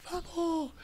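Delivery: high pitched mock yell; retold yell. Player firing up the arena after each point, high mock yell. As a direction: fire up the crowd with a high cry. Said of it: "E eu gritava".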